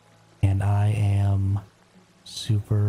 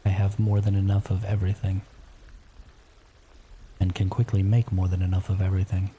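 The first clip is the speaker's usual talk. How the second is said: library whisper. Real, not acted. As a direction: whisper so the house stays asleep. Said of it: "I am whispering".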